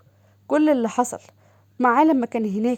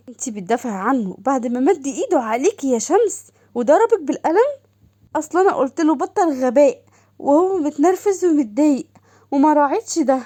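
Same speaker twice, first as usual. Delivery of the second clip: higher, eager sister calling; sister's voice; 4 semitones higher, 4 dB louder than usual. Acted. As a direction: gush over her sister on the phone. Doha indignant. (صوت أخت متلهفة أعلى)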